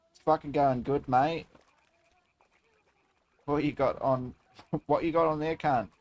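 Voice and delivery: put-on Australian accent; Aussie accent. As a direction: banter in a mock Aussie accent. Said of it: "I miss Blood's Aussie accent".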